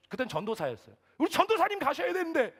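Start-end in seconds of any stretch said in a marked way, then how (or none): 1.2-2.5 high, loud indignant yell; angry attendant shouting. Retold or imitated. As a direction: shout at the driver on the pastor's behalf. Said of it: "소리를 막 버럭버럭 지르는". (버럭 소리치며 나무라는 말투)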